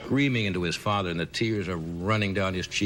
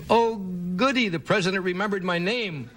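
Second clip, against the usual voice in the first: higher, chuffed little voice; mock Bush caption; 11 semitones higher than usual. George Bush delighted the president remembered his name, mock glee. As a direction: play it gleeful and childish.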